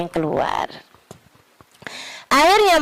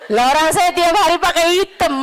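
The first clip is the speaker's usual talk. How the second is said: laughing, higher-pitched self-mockery; amused protest; 5 semitones higher than usual. Real, not acted. Speaker jokes to audience about always wearing black, amused protest.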